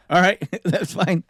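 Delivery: high, loud and slow, breaking into laughter; amused acceptance. Retold or imitated. Engineer accepting the rapper's new name, laughing. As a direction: give in to it with a laugh.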